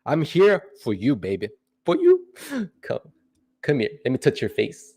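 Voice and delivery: teasing, soft and breathy, pitch leaping up on "for you"; mock tender coo. Streamer teasing his viewers, playful mock-romantic murmur. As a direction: croon to the chat like a hammed-up lover.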